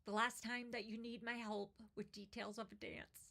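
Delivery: real emotion pushing through a poem, long pauses; fighting back tears as you read; emotional reading. Real, not acted. Parent moved by the poem, reading on through real emotion. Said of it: "I don't know why I'm getting emotional".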